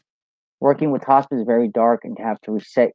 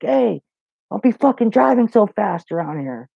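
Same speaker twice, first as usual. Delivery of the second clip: higher-pitched imitation of an irate old man; mock cussing; 7 semitones higher than usual. Old man warning the maintenance worker off speeding, mock cussing. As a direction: imitate his scolding, voice pitched up. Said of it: "he was all cussing at me".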